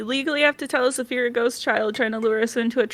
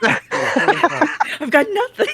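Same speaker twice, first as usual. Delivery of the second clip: slow words through laughter; helplessly amused, laughing as you talk; 4 semitones higher, much slower than usual. Real, not acted. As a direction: crack up while admitting defeat. Cracking up at the table.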